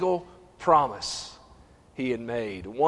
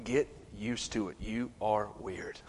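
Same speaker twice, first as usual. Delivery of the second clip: talking to himself; 6 dB quieter than usual. Retold or imitated. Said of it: "I'm preaching to myself".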